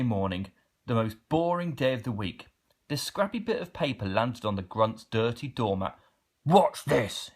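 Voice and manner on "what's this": mild troll cry. Acted. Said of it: "he cried".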